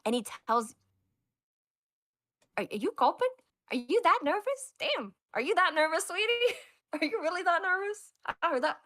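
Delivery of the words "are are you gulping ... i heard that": high mocking coo on "sweetie"; mocking tease. Eurylochus taunting the nervous captain, mocking. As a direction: taunt him for being nervous.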